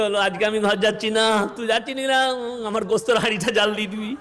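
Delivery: mundane chat in a pretend wail; imitation tearful singsong; mock crying. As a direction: whine it like a fake mourner. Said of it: "কাঁদতে কাঁদতে".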